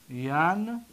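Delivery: ینکسر drawn out as yan, long pause, ka-si-ru; syllable by syllable. Shown as a demonstration. Teacher breaking down the present verb, syllable by syllable. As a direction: sound out ینکسر slowly with a long gap.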